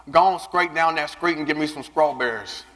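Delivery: country "scrape", "street" and "strawberries" with skr for str; country mispronounced STRs. Retold or imitated. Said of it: "I couldn't say my S T Rs correctly".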